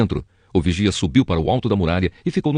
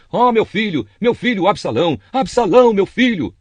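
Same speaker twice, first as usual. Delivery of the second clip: high cry of grief, much higher, peaking loud on Absalão; loud wailing lament; 11 semitones higher than usual. Acted. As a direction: cry out for the lost son, covering the face. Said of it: "gritava alto".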